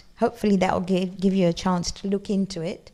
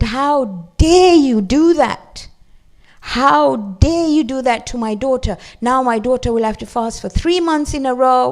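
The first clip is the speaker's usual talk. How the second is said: mother scolding; 3 semitones higher, 4 dB louder than usual. Retold or imitated. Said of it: "She said".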